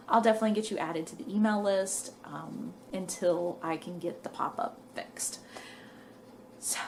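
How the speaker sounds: slightly winded, quick words; out of breath. Real, not acted. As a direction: talk while catching breath. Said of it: "I'm a little out of breath".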